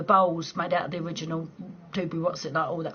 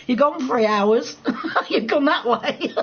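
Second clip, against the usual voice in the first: laughing tease; 5 semitones higher, 5 dB louder, slower than usual. Real, not acted. Teasing viewer about getting lost.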